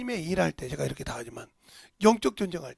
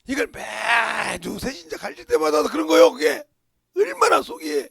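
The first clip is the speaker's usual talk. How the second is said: loud, rising, indignant preaching; preaching shout; 6 semitones higher, 10 dB louder than usual. Real, not acted. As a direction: build the outrage to a shout. Preacher builds to outrage.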